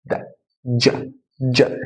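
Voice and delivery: جا opened with a light دا, making dj. Shown as a demonstration. Teacher demonstrating English J slowly, light d first. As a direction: tap a small d into جا. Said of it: "دال خفيفة كده في النطق".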